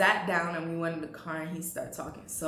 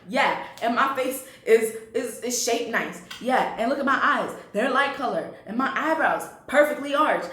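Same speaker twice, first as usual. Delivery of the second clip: vain bragging; 4 semitones higher, 4 dB louder than usual. Retold or imitated. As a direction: brag about every feature, pitched up. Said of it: "she used to do a rundown".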